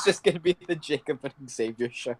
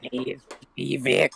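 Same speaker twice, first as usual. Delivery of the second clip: put-on coughing, 40-year-old smoker's voice. Correcting another's impression of a coughing caller, imitating Vic's sick voice. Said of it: "it sounds like a 40-year-old smoker".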